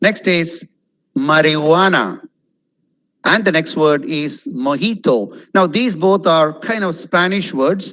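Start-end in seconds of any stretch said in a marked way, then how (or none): 1.3-2.0 marijuana as "ma-ri-WAH-na"; no J sound in marijuana; silent J. Shown as a demonstration. Teacher introducing Spanish word, marijuana with silent J. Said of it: "J is completely silent". 4.7-5.2 mojito as "mo-HEE-to"; silent J. Shown as a demonstration. Teacher introducing Spanish word, mojito with silent J. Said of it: "J is completely silent".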